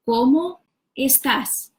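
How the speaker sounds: ¿Cómo estás? said slowly with stress on "Cómo"; slow drill. Shown as a demonstration. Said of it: "you put the words together".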